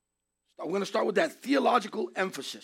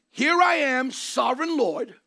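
voice of God; 3 semitones higher than usual. Acted. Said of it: "It is".

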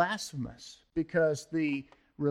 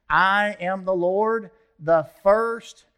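proclaiming; 3 semitones higher, 8 dB louder, slower than usual. Acted. Preacher proclaiming God's words.

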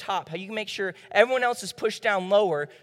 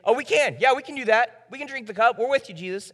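eager quick agreement; 3 semitones higher, 5 dB louder than usual. Retold or imitated. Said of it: "disciples say really quick".

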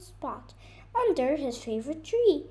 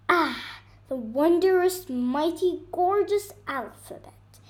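bird voice, louder, savouring each word; marveling bird; 4 semitones higher, 6 dB louder than usual. Acted. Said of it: "she marveled".

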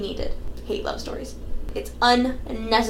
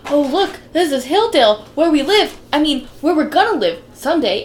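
louder mock Marty voice; lightly voiced Marty, louder; imitating Marty; 4 semitones higher, 6 dB louder than usual. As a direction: play Marty eagerly showing the house. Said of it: "and he's like".

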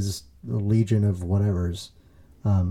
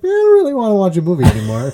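weary, fed-up; 8 semitones higher, 4 dB louder, much faster than usual. Retold or imitated. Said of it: "I was like".

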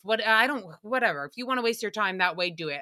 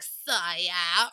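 cartoon lion; 4 semitones lower than usual. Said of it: "he was always like".

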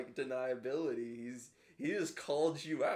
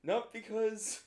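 mock tearful speech; 3 semitones higher than usual. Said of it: "And he's like".

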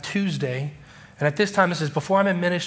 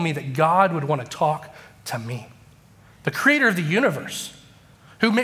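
hurt, serious complaint; 3 semitones higher than usual. Retold or imitated. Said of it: "I was serious".

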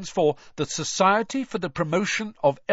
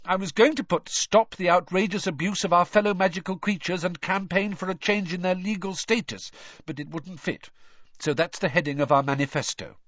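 higher-pitched, earnest crusading; indignant lecture; 8 semitones higher than usual. A narrator's reading. Hermione defending her manifesto to friends, indignant. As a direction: argue the cause with heat.

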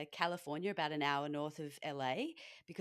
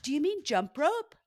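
mock American question; 9 semitones higher, 8 dB louder than usual. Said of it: "And like".

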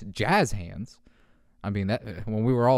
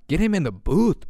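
excited; 6 semitones higher, 5 dB louder than usual. Real, not acted. Excited hype about cat.

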